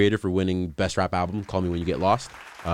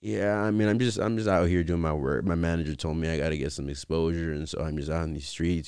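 monotone voice. Retold or imitated. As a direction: mumble it like you don't care. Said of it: "Monotone as hell".

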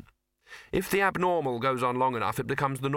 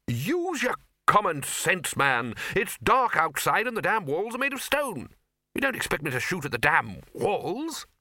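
put-on higher, emphatic blustering old master; blustering Arch-Chancellor; 7 semitones higher than usual. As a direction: scold a subordinate with impatient bluster. Gruff Arch-Chancellor scolds bursar.

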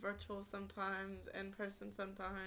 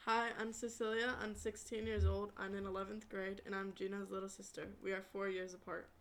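metallic robotic sound. Real, not acted. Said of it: "Why do you sound like a robot?".

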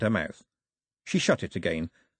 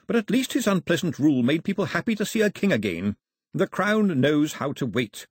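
formal, higher-pitched courtier; Mister Black, official; 5 semitones higher than usual. Acted. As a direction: explain history to royalty with measured emphasis.

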